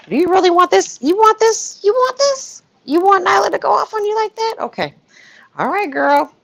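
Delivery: high sassy mock warning, pitch way up; taunting like a sassy gossip; mocking Sylvia. Teasing Sylvia about Nyla going off, high and mocking. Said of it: "I'm like".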